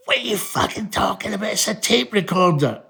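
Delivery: baffled dad. Retold or imitated. Dad not understanding his sons' explanation, exasperated disbelief. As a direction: imitate an incredulous, outraged dad. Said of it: "he couldn't understand".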